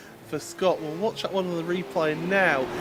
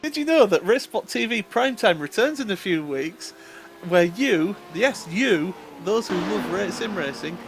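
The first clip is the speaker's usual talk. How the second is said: ad read; 3 dB louder than usual. Acted. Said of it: "nice little plug".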